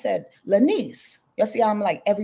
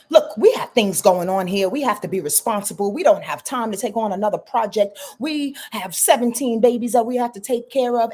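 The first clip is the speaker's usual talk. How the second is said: stern Capricorn; 5 semitones higher than usual. Acted. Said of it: "Capricorn will say".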